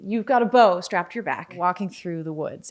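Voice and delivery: hushed, spooky scene-setting; game master narration. Acted. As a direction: draw the player into the dark forest. DM sets the night-forest scene.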